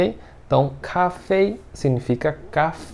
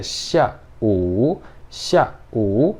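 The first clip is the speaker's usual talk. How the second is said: syllables separated; much slower than usual. Shown as a demonstration. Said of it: "eu posso separar os dois".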